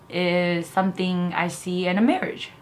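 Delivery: blocked nose, thick sound; stuffy nose. Real, not acted. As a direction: talk through a stuffy nose. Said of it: "Sorry, I have a stuffy nose".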